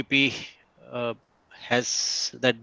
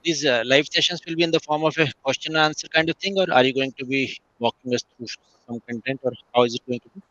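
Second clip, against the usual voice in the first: muffled voice. Real, not acted. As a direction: voice muffled, like through a hand. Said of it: "your voice is muffled a bit".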